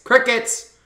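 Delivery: high, loud rallying shout; hyped host yell; calling out. Real, not acted. Host rallying chat to spam.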